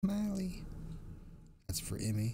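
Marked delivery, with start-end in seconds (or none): 0.0-0.6 high-pitched squeak; squeaky high voice. Pretend. Reading emoji name aloud.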